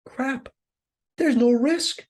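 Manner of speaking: high, loud frustrated outburst; Pip, realizing the game is rigged, fumes in a high, loud voice; pissed off. Retold or imitated. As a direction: blurt it out furious at the rigged game. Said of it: "He gets so pissed".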